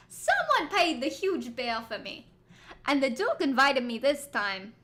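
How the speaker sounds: loud, deliberate character voice; Zack. Acted. Game character explaining his release, put-on forceful voice. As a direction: put on a forceful villain-game voice, punching the words. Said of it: "I should do my Zack voice".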